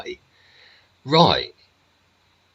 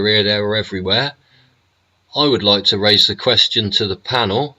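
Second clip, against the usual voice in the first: quoted delegate; 3 semitones higher, 3 dB louder, faster than usual. Retold or imitated. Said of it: "they stood up and they said".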